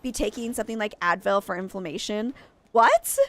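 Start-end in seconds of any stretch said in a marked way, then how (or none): 2.7-3.2 a shocked, much higher "what?"; incredulous what. Real, not acted. Outraged patient told to take Advil, shocked high what. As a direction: toss it up high in disbelief.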